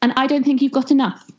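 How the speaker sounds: high little pig voice; piggy voice. Acted. Pig mocking the wolf's puff, high voice. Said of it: "pig said".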